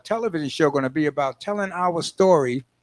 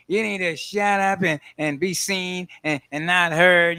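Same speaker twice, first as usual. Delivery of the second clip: imitating a parent; 3 semitones higher than usual. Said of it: "what our parents used to say to us".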